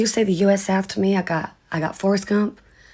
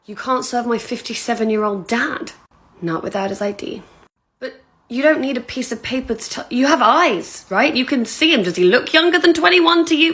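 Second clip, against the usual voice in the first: indignant protest; 5 semitones higher than usual. Acted. Acted daughter protesting to bartender.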